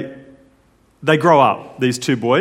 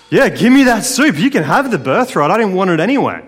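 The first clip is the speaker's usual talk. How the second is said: higher, louder mock dismissive eagerness; Esau; 6 semitones higher, 4 dB louder than usual. Esau trading his birthright for soup, pitched-up flippant mock eagerness. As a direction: blurt it out, hammed-up and careless. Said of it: "Not if you take it seriously. Esau does".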